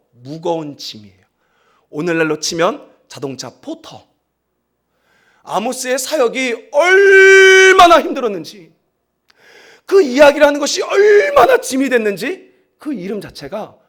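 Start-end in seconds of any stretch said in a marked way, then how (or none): 5.4-13.7 loud, high, crying shout; anguished shout. Real, not acted. Preacher crying out to the congregation, tearful shout. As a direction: cry out the weight of his burden.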